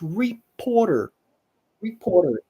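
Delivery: American English "reporter", R sounded. Shown as a demonstration. Teacher contrasting American English reporter. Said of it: "In American English".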